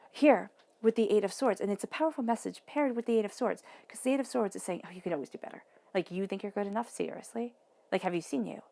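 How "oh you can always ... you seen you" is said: lightly voiced smug put-down; mock the listener with a sneer in it; a hint of a smack-worthy condescending card. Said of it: "that condescending, you know, kind of like, I wanna smack it voice".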